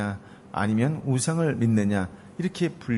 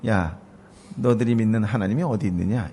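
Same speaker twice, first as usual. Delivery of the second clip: mocking taunt. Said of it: "비웃으며 조롱하면서".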